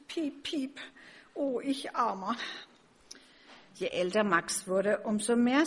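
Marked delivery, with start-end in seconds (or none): 0.1-2.4 small, higher chirpy bird voice; peeping little sparrow. A narrator's reading. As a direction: peep sorrowfully like a sorry little bird. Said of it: "Und er piepst". (klagend piepsender kleiner Spatz)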